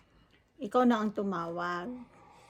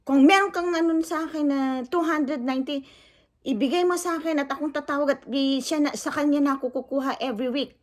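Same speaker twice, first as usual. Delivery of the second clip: louder, higher, fast heated challenge; retold angry owner; 4 semitones higher, 4 dB louder, faster than usual. Angry lechon owner challenging the vlogger, loud and fast. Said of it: "Galit na galit. Sinisigawan niya na ako".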